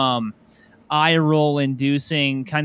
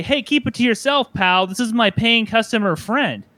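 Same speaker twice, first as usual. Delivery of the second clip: owner standing up for him; 7 semitones higher than usual. Pretend. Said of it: "doesn't turn to that dude and say".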